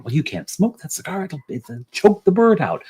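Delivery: the fussy bird lady pushing back at the smoker; indignant woman. Acted. Woman arguing with man on train.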